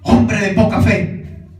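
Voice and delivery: Jesus rebuking Peter, reproachful. Shown as a demonstration. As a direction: scold the disciple, slowly. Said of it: "Es como un reclamo".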